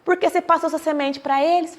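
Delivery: a curious stranger questioning the winner, incredulous; puzzled challenge. Retold or imitated. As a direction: press him on why he gives the corn away. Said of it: "chegou uma pessoa e falou assim".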